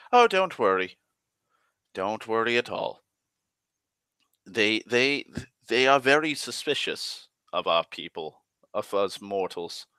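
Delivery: smooth it over like a charming host; silky elf king. Retold or imitated. Elf king soothes the alarmed grandfather.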